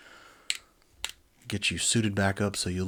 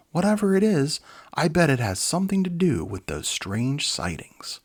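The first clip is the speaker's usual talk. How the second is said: alarmed doctor; 8 semitones higher, 6 dB louder than usual. Acted. Bright alarms the team.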